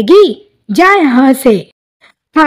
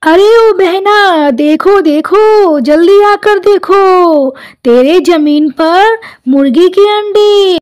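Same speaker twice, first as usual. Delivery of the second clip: drawn-out call across the yard to come and see; 3 semitones higher than usual. Acted. Calling the neighbour to come look.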